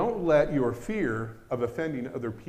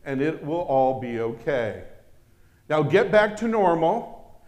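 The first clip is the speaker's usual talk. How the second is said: soothing politician; 4 semitones higher, 9 dB louder than usual. Retold or imitated. Politician pacifying crowd quote.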